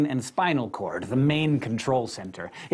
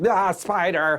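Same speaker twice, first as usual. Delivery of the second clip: high-pitched play-acted startled cry; mock alarm; 6 semitones higher, 3 dB louder, slower than usual. Narrator acting out the body fired up at a spider, mock alarm. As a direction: yelp it as a pretend spider scare.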